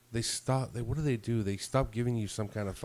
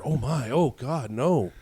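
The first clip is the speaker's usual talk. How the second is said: mock scared; 3 semitones higher, 7 dB louder than usual. Mocking the supervisor to her face, hammed-up fake fright. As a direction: pretend to grovel in terror. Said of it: "I'm gonna get scared".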